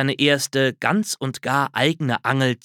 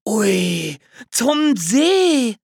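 much higher, louder thrilled squeal; excited cry; 10 semitones higher, 5 dB louder, much slower than usual. A narrator's reading. Squirrel hears the bear goes to the lake, excited squeal. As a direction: squeal it out with delight. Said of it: "rief Hörnchen begeistert".

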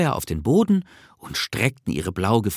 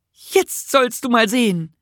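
high-pitched, showing-off creature voice; eager little Nisse; 13 semitones higher, 3 dB louder than usual. Acted. Nisse is about to light the stove, eagerly proud. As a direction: announce it in a high character voice.

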